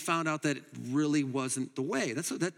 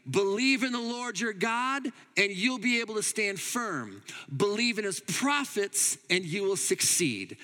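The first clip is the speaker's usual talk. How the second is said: higher, emphatic proclamation of faith; emphatic declaration; 5 semitones higher than usual. Retold or imitated. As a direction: declare each line with firm conviction. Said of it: "they would say that emphatically".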